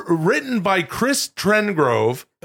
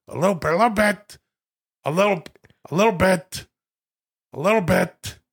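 lightly mannered, squeezed-down catchphrase; Al Pacino doing Robert De Niro; 3 semitones higher than usual. Acted. Pacino quoting De Niro over and over, lightly mannered mimicry. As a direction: slur "little" into a mannered impression. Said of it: "This is Pacino's impression of De Niro".

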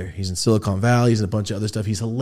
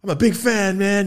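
giddy fan voice; 9 semitones higher than usual. Retold or imitated. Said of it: "And I went".

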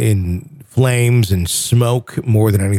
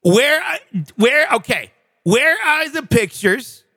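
higher, exasperated radio-host tirade; Casey Kasem rant; 5 semitones higher than usual. Retold or imitated. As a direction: demand the pictures like an irate DJ. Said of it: "the Casey Kasem outtake reel".

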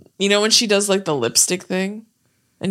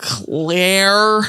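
imitating his Claire. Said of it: "The way he says it".

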